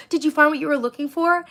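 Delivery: high sugary clerk voice; sing-song sweet, faking friendliness; mock fake-nice clerk. Imitating the worker trying to be nice, sugary high voice.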